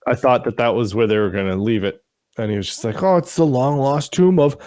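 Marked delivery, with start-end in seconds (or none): 3.0-4.6 higher, stretched-out grand announcement; mock dramatic reveal. Host mimicking the show's big tomb discovery, mock dramatic. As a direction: play up the grand reveal, slowing on the name.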